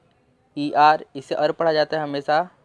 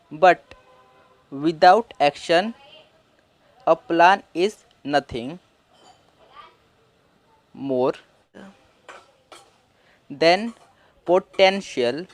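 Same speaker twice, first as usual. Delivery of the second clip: very slow, word by word; slow reading; much slower than usual. Shown as a demonstration. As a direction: read each word slowly for learners. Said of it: "इसे अब हम तोड़ के पढ़ते हैं". (धीरे-धीरे पढ़ना)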